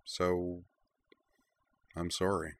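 softly, barely voiced; quiet. A narrator's reading. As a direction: say it softly, apologetic. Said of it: "and said quietly".

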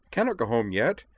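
high, loud, excitable objection; protesting. A narrator's reading. Edward reminds the driver about tickets, protesting. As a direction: protest with rising urgency. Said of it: "Edward protested".

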